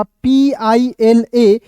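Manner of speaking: very slow, each letter set apart; teacher spelling a word slowly for beginners. Shown as a demonstration. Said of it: "क्या पढ़ेंगे?".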